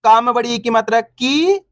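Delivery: final "की" stretched long; teacher's chant ending on a long "की"; drawn-out vowel. Shown as a demonstration. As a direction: spell it out, then hold the ee in "की". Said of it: "अपन खींच खींच के पढ़ेंगे".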